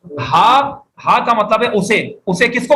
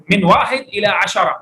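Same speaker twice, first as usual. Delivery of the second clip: slow model reading; slower than usual. Shown as a demonstration. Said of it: "بولیں".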